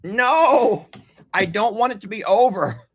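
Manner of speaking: whiny plea that fades to a murmur; pleading protest. Retold or imitated. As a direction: beg the meal not to end, winding down. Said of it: "and I'm like".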